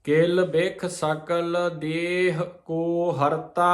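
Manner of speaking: slow careful chanting of scripture; slow recitation. Shown as a demonstration. Teacher reciting the next verse slowly to the sangat. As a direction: draw out every word. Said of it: "reciting the next line slowly".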